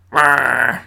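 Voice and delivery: reindeer voice. Acted. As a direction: growl it like a grumpy reindeer. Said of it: "That's my reindeer voice".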